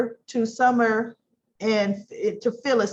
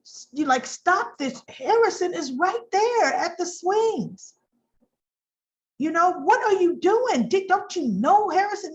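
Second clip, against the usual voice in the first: higher, urgent objection; alarmed Jack; 7 semitones higher than usual. Retold or imitated. Jack stopping Phyllis's yelling, higher and urgent. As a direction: break it up, alarmed. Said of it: "he's like".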